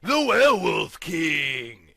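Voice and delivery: slow, drawn-out proclamation that swells into a shout; lightly voiced villain yelling his title; yelling werewolf king. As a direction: announce yourself as a mad king. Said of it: "he yelled".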